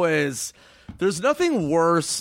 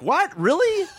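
mock surprise; slower than usual. Feigning innocence to the guard.

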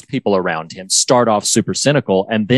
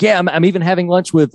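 high chirpy Ted; imitating Ted; 8 semitones higher, faster than usual. Host re-imitating Ted about Higgins, high and chirpy. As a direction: say it bright and eager. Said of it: "he's like".

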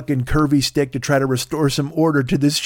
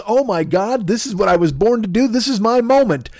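excited realization; 9 semitones higher, 4 dB louder than usual. Acted. Shepherd's thrilled inner realization.

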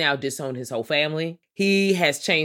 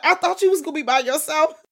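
mock surprise; 11 semitones higher, 4 dB louder, faster than usual. Lady surprised on the jet.

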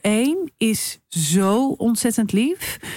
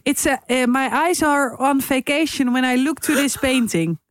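higher, halting put-on English; earnest nonsense in pretend English; mock art lover; 4 semitones higher than usual. Co-host spoofing English art talk, mock art lover.

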